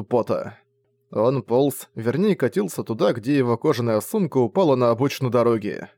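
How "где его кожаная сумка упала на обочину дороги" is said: plain reading voice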